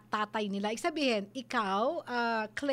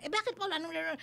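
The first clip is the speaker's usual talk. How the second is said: high-pitched, mock-indignant comeback; indignant questioning; 4 semitones higher, 3 dB quieter, much faster than usual. Someone questioning a security guard's request, mock-indignant. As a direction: protest in a higher voice, lightly hammed up.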